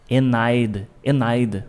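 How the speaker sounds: "And I'd" run together as "enaid", no D in and; linked as one word. Shown as a demonstration. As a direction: drop the D, glide into "Enaid". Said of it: "uma coisa só".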